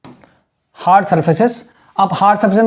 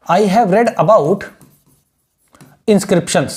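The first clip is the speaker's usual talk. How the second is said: "I have read about inscriptions" dragged out slowly, word by word; teacher dictating a model line; slow dictation; 2 semitones lower, much slower than usual. Shown as a demonstration. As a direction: dictate it slowly so they can write. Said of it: "इसको आप लिख लीजिए".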